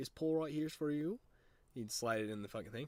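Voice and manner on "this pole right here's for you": put-on light Minnesota accent, pitched up. Acting out a man from Minnesota teaching you to fish on his boat, imitating a slight Minnesota accent. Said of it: "he had a little bit of an accent because he was from Minnesota".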